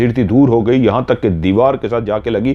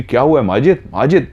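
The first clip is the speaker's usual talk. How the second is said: slightly raised pitch, questioning her husband; a touch of alarm, calling his name; mildly alarmed; 4 semitones higher, faster than usual. Acted. Alarmed wife questions attacking husband. (हल्की घबराहट में पूछते हुए)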